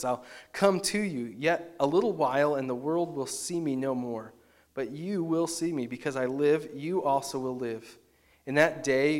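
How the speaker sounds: measured, solemn Bible reading; scripture reading. Acted. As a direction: read the words of Jesus with weight and pauses. Reads scripture passage aloud.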